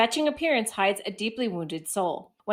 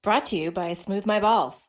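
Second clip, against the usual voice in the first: fighting game announcer. Pretend. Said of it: "please say that again".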